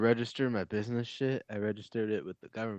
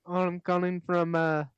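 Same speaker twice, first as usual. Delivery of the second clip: much higher, sing-song telemarketer; mock caller voice; 9 semitones higher than usual. Friend mimicking the third-party caller, much higher and chirpy. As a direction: play the caller as a chirpy phony.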